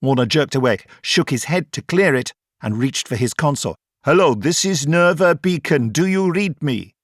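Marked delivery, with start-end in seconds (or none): 4.0-6.9 startled radio call. Acted. Jerked awake, calling the radio.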